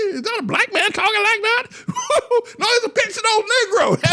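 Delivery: very high, squeezed voice with laughter; mocking exchange. Preacher acting out reaction to television talkers, high mocking voice. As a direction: play it high and squealing, laughing.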